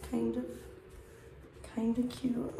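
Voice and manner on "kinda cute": hushed second verdict on the outfit; a little whisper to herself; whispered repeat. Real, not acted. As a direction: repeat it under your breath.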